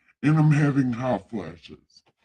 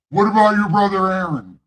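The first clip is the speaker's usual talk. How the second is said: annoyed fast god; 5 semitones higher, 4 dB louder, much faster than usual. Acted. God getting pissed off.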